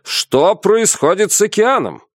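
high, urgent question; alarmed shouted question. A narrator's reading. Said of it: "закричал капитан".

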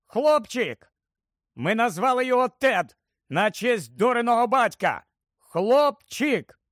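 high, elated announcement; joyful shout. A narrator's reading. New father announces his son, shouting with joy. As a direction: cry out the news, bursting with joy. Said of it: "раптом крикнув на весь голос".

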